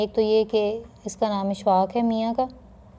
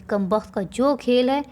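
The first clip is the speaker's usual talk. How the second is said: angry mother; 3 semitones higher than usual. Acted. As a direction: drag the child off yelling. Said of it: "ماں اسے غصے ہوتے".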